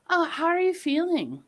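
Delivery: put-on calming lilt, dropping to gentle checking; soothing voice. Friend checking on a snakebite victim, mock soothing voice. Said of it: "soothing voice".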